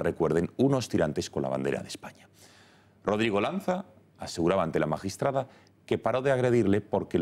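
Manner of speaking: measured news anchor delivery with lifted openings; news read. Acted.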